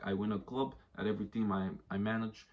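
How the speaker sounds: lightly Russian-accented Mourinho imitation; accidental Russian accent. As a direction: slip into a rough Russian accent. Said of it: "I don't know why I spoke Russian".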